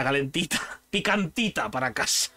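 laughing through the words; giggling at your own joke. Real, not acted. Laughing at own joke about alioli.

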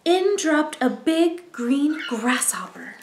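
slow, breathy whispered reveal; hushed, slow reveal; storyteller whisper. A narrator's reading. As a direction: whisper it like a secret. Suspenseful storytelling.

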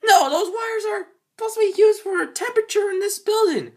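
a squeaky rat-like whine; squeaky creature voice. Acted. High voice with cry.

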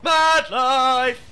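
excited shout. Real, not acted. Calling out champion in-game.

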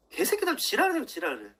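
sudden high angry cry of contempt; angry outburst. Real, not acted. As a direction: spit the insult out in anger.

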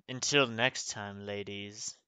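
low, soft, put-on smooth farewell; hammed-up low goodbye to the ladies; mock-suave sign-off. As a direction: drop low and soft, barely keeping a straight face. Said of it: "couldn't say that with a straight face".

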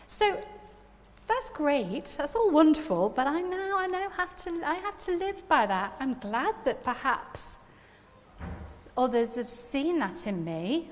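ordinary talk

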